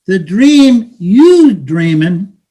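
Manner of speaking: street hustler taunting a newcomer; bitter, mocking street talk to a dreamer; cynical hustler. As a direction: talk down to him like a weary hustler.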